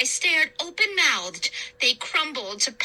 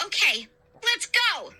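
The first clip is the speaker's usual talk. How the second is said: eager cry; 7 semitones higher than usual. A narrator's reading. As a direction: launch the charge. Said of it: "I cried".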